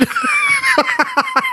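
a high burst of real laughter; shrieking laugh. Real, not acted. Co-host cracking up about being half cut, high whooping laugh.

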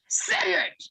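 sharp, high yelled order; angry demand. Retold or imitated. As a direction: bark the order at the crying daughter. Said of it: "fucking mad that I was like".

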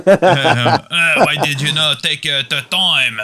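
high, hammed-up French accent; exaggerated French accent. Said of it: "go on".

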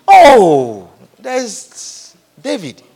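slow drawn-out recollection; sudden remembering. Retold or imitated. Jesse suddenly remembering David, slow surprised recall. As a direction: slowly recall the forgotten son. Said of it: "Samuel had to ask him".

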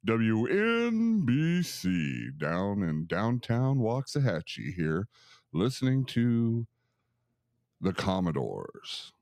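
slow, drawn-out radio DJ announcement. Shown as a demonstration. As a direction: play a smooth radio host. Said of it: "I wanna practice my radio voice".

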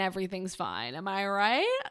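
imitating cheesy, self-pleased sarcasm; mock sarcastic. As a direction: put on a corny "so sarcastic" voice. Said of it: "Kind of way".

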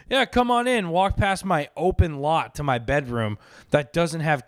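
lightly put-on inviting host; mock invitation. Inviting a date to a bare house, mock inviting. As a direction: play at luring a date inside.

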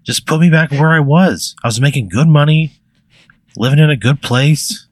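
fed-up player demanding to go back; exasperated protest. Pretend. Angry player protests to mobster.

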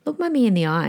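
firm, even, no-nonsense request; calm authority. Shown as a demonstration. Mother repeating to her child, calm firm authority. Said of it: "Can you hear that authority".

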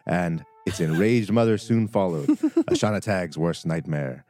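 lively campaign recap; game master narration. Acted. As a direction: recap the adventure with flair.

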